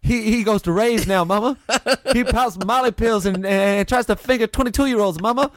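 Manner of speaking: high, wailing plea to Mama; hammed-up mournful son crying for Mama; mock Southern lament. Podcast hosts riffing a dying soldier's lament to Mama.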